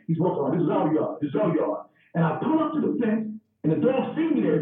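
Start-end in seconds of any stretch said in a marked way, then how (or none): 0.6-1.8 proud dog. Retold or imitated. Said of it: "That's the dog saying".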